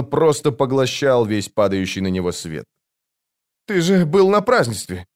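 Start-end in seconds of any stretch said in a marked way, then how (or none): 3.7-5.1 high, excited blurt. A narrator's reading. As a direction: blurt it out in surprise. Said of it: "выпалил Крокус". (выпалил)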